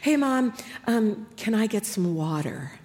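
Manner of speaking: lightly voiced, hesitant child; a hint of a sleepy daughter; daughter asking. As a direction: ask Mom softly for a favor. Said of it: "she was like".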